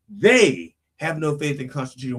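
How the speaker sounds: emphatic "they" at the start; stress on THEY. Shown as a demonstration. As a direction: put the weight on "they". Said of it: "it could be".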